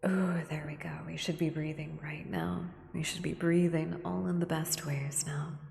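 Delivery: gentle whispered ASMR guidance. Acted. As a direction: whisper them through the breath.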